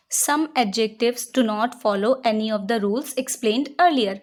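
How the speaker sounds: slow, deliberate rule reading; slow dictation read. Shown as a demonstration. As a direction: read the rule out slowly for students to write. Reads rule slowly as dictation. (धीरे-धीरे नियम पढ़ना)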